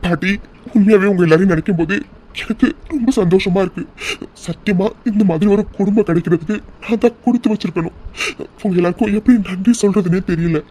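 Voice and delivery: choked-up, halting thanks; tearful gratitude. Acted. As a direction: act moved to tears, pausing between phrases. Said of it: "என்னடா இப்படி நீ அழுதுட்டு இருக்க".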